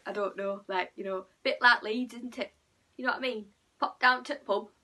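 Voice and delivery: Yorkshire with a blocked nose, bit like Leeds; Yorkshire accent. Shown as a demonstration. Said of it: "Like, the Yorkshire accent, it sounds like".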